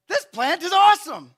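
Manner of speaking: high, loud gushing over the plant; mock delight. Jonah thrilled with his shade plant, high loud mock delight. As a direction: gush like a happy kid.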